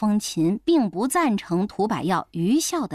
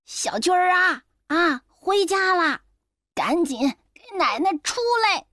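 气冲冲地喊; 6 semitones higher than usual. Acted. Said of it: "气冲冲地在诊室的门口喊".

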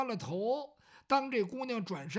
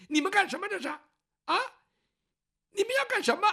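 higher, louder frightened protest; 10 semitones higher, 6 dB louder than usual. Acted. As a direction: cry out against the thugs. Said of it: "姑娘就大声吵吵". (姑娘高声惊叫抗议)

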